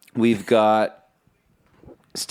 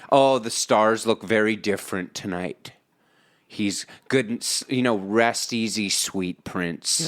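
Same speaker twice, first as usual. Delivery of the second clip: mock mourning. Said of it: "everybody pretends that they're big fans".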